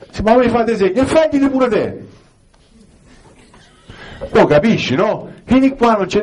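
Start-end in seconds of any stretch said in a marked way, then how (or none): 0.2-2.1 very high mock voice; other husband's reply. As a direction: answer like a fellow henpecked husband. Another man answers about signs. (l'altro marito risponde con voce molto acuta)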